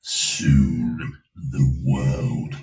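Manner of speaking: deep, slow evil villain voice; mad scientist. Acted. Soundboard villain voice played/done.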